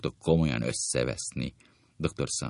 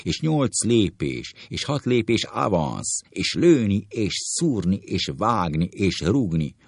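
mild mounting anger, piling up the demands; each demand a little more heated; growing furious; 3 semitones higher than usual. Acted. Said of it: "Feldühödik".

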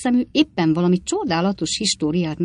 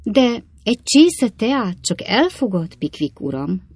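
put-on coaxing old lady's offer, higher and slow; irresistibly kind; 5 semitones higher, 3 dB louder, slower than usual. A narrator's reading. Old lady offers Pickwick a cup of tea, kindly coaxing. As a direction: offer it with irresistible sweetness, drawn out. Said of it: "ellenállhatatlan kedvességgel".

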